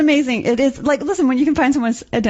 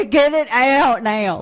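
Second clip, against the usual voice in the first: mock desperate caller; much slower than usual. Imitating suffering caller.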